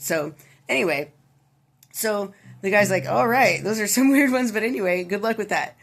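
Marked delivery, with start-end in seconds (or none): 3.1-5.8 higher, louder, laughing through the words; half-laughing at how weird the tasks are; amused disbelief. Retold or imitated. Guy at the bar to the bartender, amused and raised.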